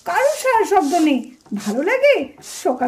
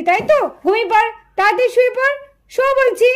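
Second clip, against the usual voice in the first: put-on raised, scolding mother telling the girls off; a mother nagging her girls to sleep, voice pitched up; mother scolding the girls for staying up late.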